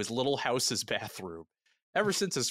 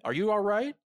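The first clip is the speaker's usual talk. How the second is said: calling out; 9 semitones higher, 4 dB louder than usual. Acted. Delenn calls from bed.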